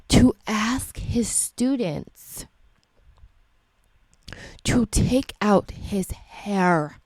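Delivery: slow unvoiced whisper. Real, not acted. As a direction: drop to a disbelieving whisper.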